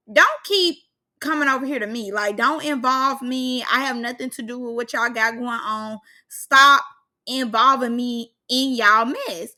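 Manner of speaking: mock warning with hard punches on the first words and on "stop"; retold firm telling-off. Vlogger voicing Nia Lee refusing to be involved, firm and emphatic. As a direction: act out someone firmly setting a boundary.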